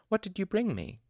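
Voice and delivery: put-on bright, eager and high-pitched, like a child; excited. A narrator's reading. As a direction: ask eagerly for a gift. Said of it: "she asked excitedly".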